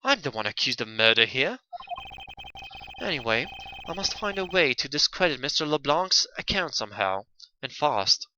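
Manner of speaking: lightly voiced puzzled defendant; game defendant's inner thoughts. Accused privately planning to discredit witness, lightly voiced. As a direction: muse to yourself as the accused.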